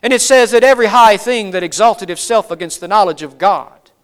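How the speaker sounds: a hint of a lecturing professor. Shown as a demonstration. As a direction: read it out like a scholar giving a lecture. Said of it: "I'm gonna go into my professor voice here".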